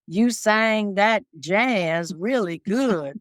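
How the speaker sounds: lightly imitated Southern country accent, slow and drawn out; a hint of a Southern country singer's accent, taking it slow; a country singer's accent. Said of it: "in his accent".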